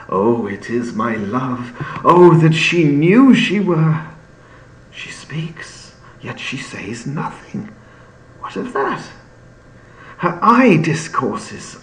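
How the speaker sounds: a lightly voiced rapt young lover, swinging from hushed to bold; Romeo, lovestruck. Teacher reads Romeo watching Juliet, lightly lovestruck. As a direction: read it like a smitten boy. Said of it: "He goes on".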